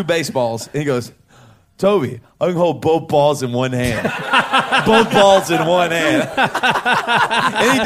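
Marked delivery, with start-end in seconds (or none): 1.8-4.0 put-on little kid's lisping R's. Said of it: "all his R's are, like, W's". 4.9-6.3 louder, higher, drawn-out child imitation; imitated little kid. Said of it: "you give him a New Jersey accent".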